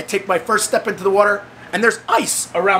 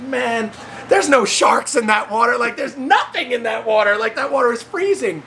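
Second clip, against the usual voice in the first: retold incredulous reply, pitched up; mock disbelief; 5 semitones higher than usual. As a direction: set a gullible friend straight. Retold friends revealing the joke.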